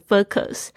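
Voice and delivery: focus with a short, lax first vowel, like "fuck-us"; former mispronunciation. Shown as a demonstration. Teacher admits how they used to say it, mispronunciation. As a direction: say focus wrongly, without the long OH glide. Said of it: "之前都常会念成".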